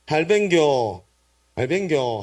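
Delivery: Gyeongsang contraction with falling tune; Gyeongsang dialect. Shown as a demonstration. Preacher translates grandfather's greeting for congregation, in Gyeongsang dialect. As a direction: say it as a Gyeongsang local would. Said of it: "경상도 사투리로".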